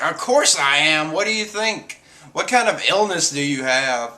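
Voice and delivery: indignant retort, imitating her; mock freak-out. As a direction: play her mildly freaking out. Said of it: "Perona freaks out".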